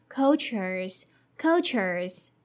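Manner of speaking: cultures as KOL-churz. Shown as a demonstration. Teacher repeating cultures again. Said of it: "combining all together".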